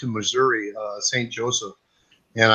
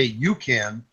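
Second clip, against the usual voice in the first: put-on understated Northern girl delivery; Northern girl accent; 4 dB quieter than usual. Shown as a demonstration. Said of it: "the Northern girls say".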